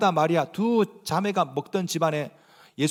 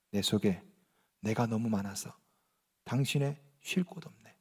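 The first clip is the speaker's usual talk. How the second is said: hushed, lower quoted lyric, half-whispered at the end; soft recitation; 11 semitones lower, 11 dB quieter than usual. Retold or imitated. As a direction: breathe the song lyric softly. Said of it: "그 노래 기억나시죠". (낮고 조용하게 속삭이듯 읊는 가사)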